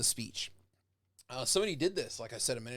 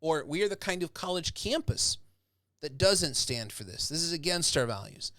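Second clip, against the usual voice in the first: rousing, slowed, louder protest speech; rally a crowd against injustice; passionate indignation; 3 semitones higher, 4 dB louder than usual. Shown as a demonstration. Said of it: "a good orator could make that happen and say".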